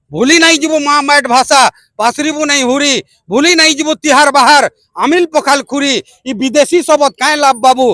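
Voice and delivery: measured, rhythmic verse; protest poem recitation. Acted. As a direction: recite with a steady beat, rallying your people. (ଛନ୍ଦରେ କବିତା ଆବୃତ୍ତି)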